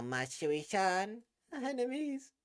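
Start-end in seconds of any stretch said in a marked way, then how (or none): 0.0-1.2 slow, distant Matsui-san; cold formal address. Acted. Futaba coldly addresses her old friend as an enemy. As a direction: say Matsui-san slowly, keeping her at arm's length. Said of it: "call me Matsui-san like that".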